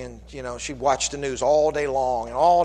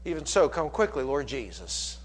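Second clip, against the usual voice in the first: hushed prayer; 3 dB quieter than usual. Acted. Closing quiet prayer quote.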